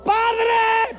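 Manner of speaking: shouted high at a deaf God; mock shout. Preacher mocking believers who yell at God, a high shout. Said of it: "le gritan a Dios como si fuera sordo".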